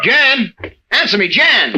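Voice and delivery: calling out. Acted. Husband searching the house for his missing wife, calling out. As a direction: shout for her, growing panic.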